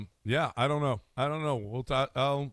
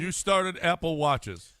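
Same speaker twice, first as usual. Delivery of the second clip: sarcastic; 3 semitones higher, slower than usual. Acted. Mocking disbelief.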